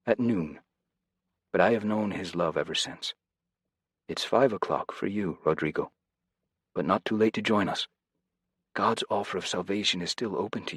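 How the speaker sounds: lightly voiced kindly older man, earnest; Jose, gentle preacher. Jose urging the prisoner Rodrigo to join them, lightly voiced earnest plea.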